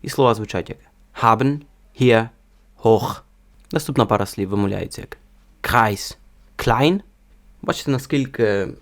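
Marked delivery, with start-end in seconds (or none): 1.2-3.2 «haben, hier, hoch» with an aspirated German h; H із придихом. Shown as a demonstration. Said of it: "вимовляють його трішки з придихом". 5.6-7.0 «Kreis, klein» with a strongly aspirated k; сильний придих. Shown as a demonstration. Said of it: "перед ним дуже робиться сильний придих".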